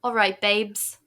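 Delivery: mock-British casual endearment; bad British accent. Podcast hosts playing at being Brits, bad British accent. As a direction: put on a clumsy British accent. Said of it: "our bad British accents".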